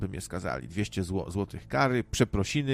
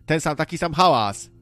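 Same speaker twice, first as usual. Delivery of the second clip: loud, raised-pitch mock declaration; shouted retort; 6 semitones higher, 7 dB louder than usual. Answering the angry neighbour about barking dogs, loud retort. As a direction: argue back at full voice, pitched up. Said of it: "A ja wtedy odpowiem".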